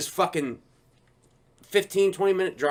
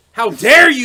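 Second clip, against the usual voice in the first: mock offended voice; 6 semitones higher, 11 dB louder than usual.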